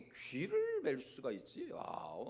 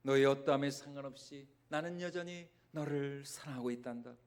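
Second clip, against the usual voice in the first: tender voice of Jesus. Acted. Voicing Jesus' love to Peter.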